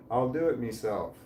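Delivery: lightly attempted Irish "me self"; trying Irish "meself". Trying out the Irish word himself, light Irish accent. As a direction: try "me self" Irish-style, MEE-self. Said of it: "Can I pull that off?".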